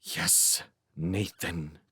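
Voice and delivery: soft whispered hiss. A narrator's reading. Bitter man hissing back at his partner. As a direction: hiss the name under your breath. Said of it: "he hissed".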